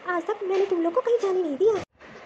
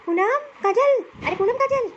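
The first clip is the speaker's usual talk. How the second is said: calling names across the house, higher; 4 semitones higher than usual. Acted. Mother-in-law calling out for her daughters-in-law, impatient.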